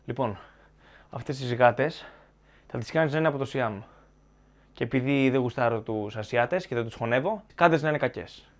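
mock a boss dictating a plot; imagined film creators. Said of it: "οι δημιουργοί και είπανε".

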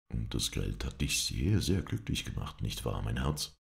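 lightly voiced venomous sweetness, low; mock her with honeyed spite; poisonously sweet. Red taunts Scarlett before the others, venomously sweet. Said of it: "mit giftig süßem Ton".

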